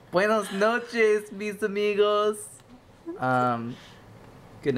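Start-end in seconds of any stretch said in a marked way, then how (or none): 0.1-2.4 high, slow, drawn-out Spanish goodnight; mock Spanish goodnight. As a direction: stretch it out theatrically.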